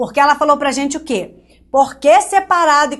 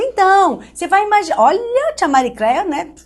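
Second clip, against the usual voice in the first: mocking the old teacher; 6 semitones higher than usual. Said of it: "Aí ela falava".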